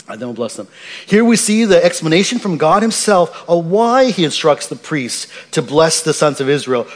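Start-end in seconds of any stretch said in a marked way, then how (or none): 0.1-0.7 soft, lower echo of the verse; quiet repeat. Shown as a demonstration. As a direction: let the phrase settle quietly, lower. Pastor repeats scripture phrase softly.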